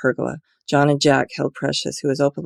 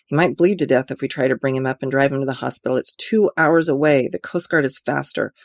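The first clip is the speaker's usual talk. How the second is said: clenched teeth. Acted. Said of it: "spoke through clenched teeth".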